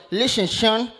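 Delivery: put-on slurred-s New York rapper accent; New York coach. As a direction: imitate a New York rap-group-style coach. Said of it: "sound like he in a rap group".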